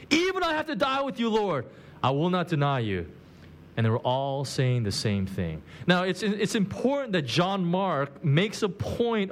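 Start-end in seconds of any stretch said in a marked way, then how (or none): 0.1-3.1 insisting, starting high then coming down on Lord; insistent. Retold or imitated. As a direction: press the promise insistently. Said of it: "kept saying the word insistently".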